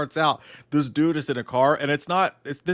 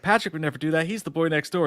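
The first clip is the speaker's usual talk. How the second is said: lightly voiced Evelyn, pitched up a bit; a hint of a prim girlfriend, repeated; Evelyn's voice; 4 semitones higher than usual. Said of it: "she's like".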